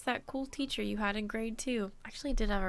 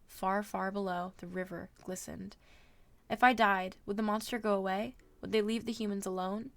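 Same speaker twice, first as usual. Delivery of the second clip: story narration. A narrator's reading. Streamer reading a novel to viewers, measured narration. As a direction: read the adventure aloud with steady pacing.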